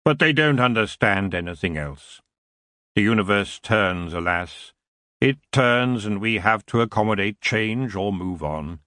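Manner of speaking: a hint of a lazy, regal king; the elf king greeting Tiffany with cool amusement.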